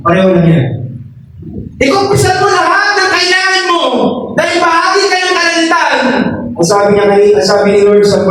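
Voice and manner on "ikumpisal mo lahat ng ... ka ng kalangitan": impassioned, high-pitched preacher's exhortation; fervent preaching. Real, not acted. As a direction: drive each phrase home, pitched high. (masidhing pangangaral, mataas ang tono)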